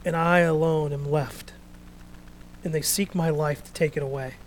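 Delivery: lightly voiced, even reading of Elijah; calmer Elijah. Elijah's complaint, second reading.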